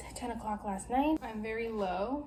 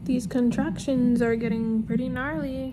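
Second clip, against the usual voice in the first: pained; 10 dB louder than usual. Real, not acted. Talking through painful contractions.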